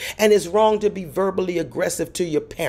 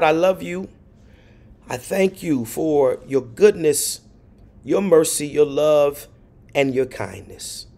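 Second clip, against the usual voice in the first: prayer; 3 semitones lower than usual. Real, not acted. Pastor leading the congregation in closing prayer, reverent. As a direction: pray reverently, pausing between phrases, building in earnest.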